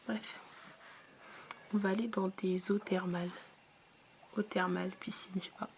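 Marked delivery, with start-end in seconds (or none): 1.7-3.3 hushed unvoiced whisper. Real, not acted. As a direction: whisper it, voice nearly gone. Whispering, sick voice.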